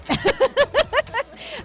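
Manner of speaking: high burst of laughter; laughing. Real, not acted. Host laughs at caught colleague.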